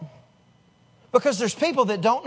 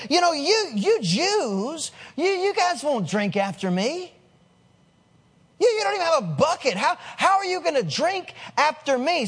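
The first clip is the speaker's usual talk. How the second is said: higher-pitched, mildly incredulous questioning; incredulous challenge; 4 semitones higher than usual. Acted. Woman at the well questions the Jewish rabbi, incredulous. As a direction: question him in mild disbelief.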